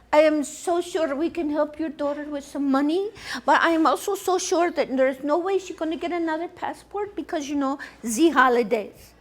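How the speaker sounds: lightly put-on French accent. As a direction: imitate a French lady's English. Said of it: "I can't speak French".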